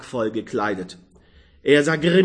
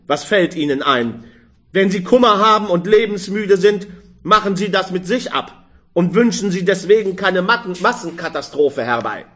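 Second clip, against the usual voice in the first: raised, fast sharp rebuke; angry scolding; 4 semitones higher, 3 dB louder, faster than usual. Acted. Old man rebuking the young woman, angry and raised. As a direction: wag the finger at her, fuming. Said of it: "sagte er zornig".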